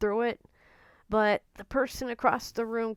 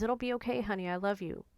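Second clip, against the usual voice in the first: Elizabeth's tender words; 3 dB quieter, faster than usual. Retold or imitated. Remembering what Elizabeth always said, tenderly. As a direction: echo her words gently, with love. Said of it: "That's what Elizabeth would always say".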